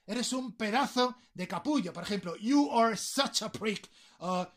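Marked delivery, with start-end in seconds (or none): 2.4-3.9 "You are such a prick" slow and separated; emphatic SUCH. Shown as a demonstration. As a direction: give "are such" room, word by word. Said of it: "todavía lo enfatizáis más". ("You are such a prick" pausado, recalcando "such")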